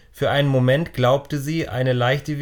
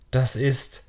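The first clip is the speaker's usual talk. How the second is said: awed; slower than usual. Acted. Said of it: "mit ehrfürchtiger Stimme".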